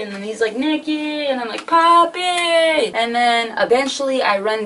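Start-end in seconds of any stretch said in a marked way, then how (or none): 0.5-1.2 retold searching call; imitated yelling. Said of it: "like, yelling". 1.7-2.9 high, lightly raised holler; retold answering call; imitated yelling back. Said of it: "like, yelling".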